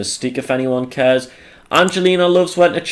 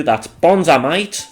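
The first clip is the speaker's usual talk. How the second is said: put-on light Aussie accent, a touch slower; 3 semitones higher, slower than usual. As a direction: toss off a quick Aussie accent impression. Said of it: "That's my Aussie impression".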